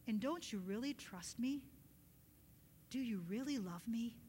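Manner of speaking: soft, searching question; hushed voice of God asking; gentle questioning. Retold or imitated. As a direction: ask it quietly and intimately.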